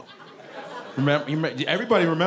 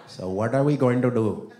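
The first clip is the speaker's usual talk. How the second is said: mock German accent; 5 semitones lower than usual. Mock German-Italian parents after audience answer.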